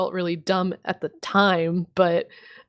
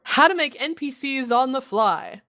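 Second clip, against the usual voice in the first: higher-pitched episode-title announcement; mock announcer; 5 semitones higher than usual. Host teases next episode to listeners, higher announcer voice.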